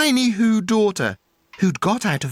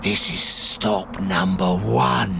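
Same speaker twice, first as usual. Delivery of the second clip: hissed; 10 semitones lower than usual. A narrator's reading. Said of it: "the old Grinchy Claus hissed".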